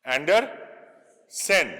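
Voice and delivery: "Andersen" stretched very slowly; drawn-out spelling demo. Shown as a demonstration.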